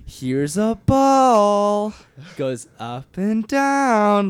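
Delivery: put-on very high, slow, swooping baby talk; wide pitch range. Shown as a demonstration. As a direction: sweep the pitch up and down, slowly. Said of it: "really, really exaggerated, um, pitch fluctuation".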